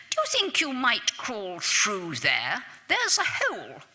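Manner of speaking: a lightly voiced fussy officer, rising high on the last words; politely fussy officer voice, lightly done; finicking officer. Officer asking a soldier to crawl through, finicking and polite. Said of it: "a finicking accent said".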